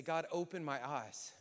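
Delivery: a slightly firmer, heartfelt prayer; earnest plea to God; like you mean it. Shown as a demonstration. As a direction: pray it with conviction. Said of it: "Now say it like you mean it".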